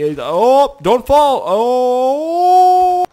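high loud alarmed "don't fall"; alarmed cry. Real, not acted. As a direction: shout as the mate tips over. Watches Hans fall.

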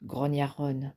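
steady audiobook reading of a novel chapter; story narration. A narrator's reading. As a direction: read it like a calm audiobook narrator.

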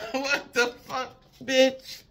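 high laughing disbelief, slowed; incredulous. Real, not acted. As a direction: scoff in shocked laughter.

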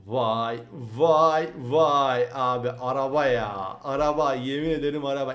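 loud, stretched wow at the car; amazed exclamations. Real, not acted. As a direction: marvel out loud at the beast. Amazed at offroad car power.

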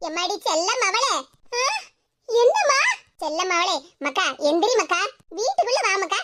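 mother suddenly sugary to lure the daughter inside; put-on sweetness. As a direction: sweet-talk her off the doorstep. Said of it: "பாசம் பொங்குற மாதிரி பேசிக்கிட்டு".

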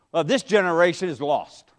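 low, soft "Well, this generation is lost" with a falling end; resigned quote. Retold or imitated. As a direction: shrug it off like a tired churchgoer. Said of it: "How many of you heard that?".

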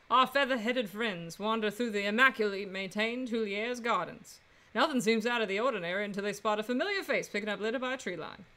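measured narrator reading the scene; story narration. Acted. Game narration read aloud.

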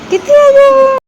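put-on excited baby-talk squeal. Shown as a demonstration. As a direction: squeal કિથે આયો way up high. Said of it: "repeated, rising".

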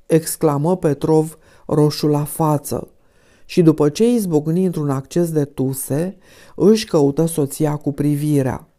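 ordinary delivery, nothing marked

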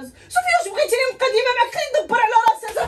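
tearful plea. Acted. Sister cries out pleading.

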